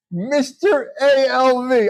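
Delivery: slow laughing wheeze. Real, not acted. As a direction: laugh it out slowly. Laughing at the joke.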